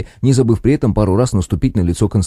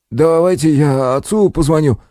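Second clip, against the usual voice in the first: higher, slow groaning offer; moaning; 7 semitones higher than usual. Acted. Kostik on the stretcher offers to call his father, moaning. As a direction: moan it through the pain. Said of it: "простонал Костик".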